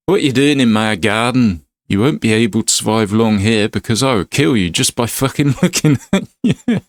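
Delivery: hammed-up Glaswegian threat; Scottish accent. Garden owner threatens the intruder, Scottish accent. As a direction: play an affronted Scottish hard man. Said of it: "Sorry about the Scottish accent".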